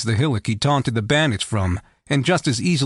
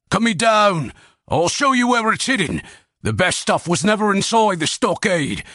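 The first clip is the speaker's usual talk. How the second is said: much higher, urgent desperate voice; panicked pleading; 6 semitones higher than usual. A narrator's reading. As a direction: sell the hidden treasure to save your life. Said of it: "words brimming with panic".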